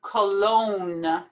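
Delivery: "Cologne" as "kuh-LOAN", no G sound; silent G. Shown as a demonstration. Teacher telling learners to ignore the G, said carefully. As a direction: drop the G in "Cologne", long O into N. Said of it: "Ignore that G completely".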